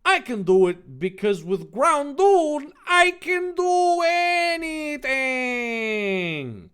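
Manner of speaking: loud, high yell stretching out at the end; heroic boast. Acted. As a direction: overblown anime hero shouting. Dave boasts before the battle.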